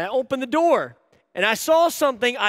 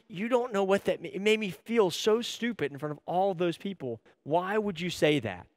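softer, acted-out wounded reproach; subdued retelling of hurt feelings; 7 dB quieter than usual. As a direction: quietly confront her, mildly wounded. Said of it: "That really hurt".

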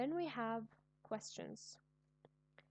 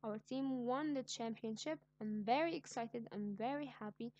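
excited; 3 dB louder than usual. Shown as a demonstration. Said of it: "showing my excitement".

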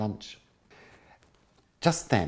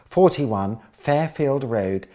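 savoured address; 5 semitones higher, 7 dB louder, much slower than usual. Acted.

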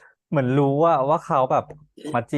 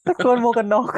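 laughing; 9 semitones higher than usual. Real, not acted. Laughing recalling the shouting scene.

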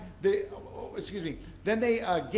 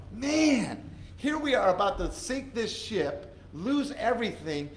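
raised, urgent voice of a sailor losing heart; mock alarmed crew; 5 semitones higher, 3 dB louder than usual. Preacher voicing frightened crew, raised urgent cry. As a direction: call it out like a panicked crewman.

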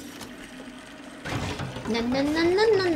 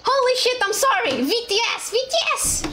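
high, frantic outburst climbing higher; panicked apology; 9 semitones higher than usual. Real, not acted. Streamer forgot to open VTS, panicked apology. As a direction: blurt it high in a sudden panic.

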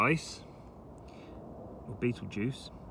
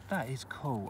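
quiet cool; 7 dB quieter than usual. Real, not acted. Repeated cool, softer second take.

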